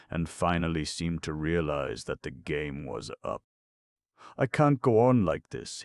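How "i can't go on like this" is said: high, strained cry; a shrill breaking-down plea; shrill undertone. Acted. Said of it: "in a shrill undertone".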